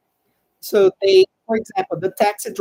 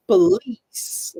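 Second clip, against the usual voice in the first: "police" with LICE stressed; whispered "police", stress on the second syllable; stress on the middle syllable; 2 semitones higher than usual. Shown as a demonstration. Teacher demonstrating word stress to class. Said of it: "the stress syllable is the one in the middle".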